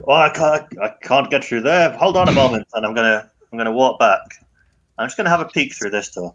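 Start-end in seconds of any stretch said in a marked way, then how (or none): 0.1-2.7 louder, higher fake dithering; mock flustered excuse. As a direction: pretend you can't get past. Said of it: "I'm tempted to be".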